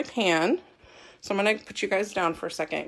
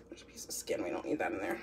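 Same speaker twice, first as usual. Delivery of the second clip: whispering; 11 semitones lower, 12 dB quieter than usual. Real, not acted. Aside while peeling onion.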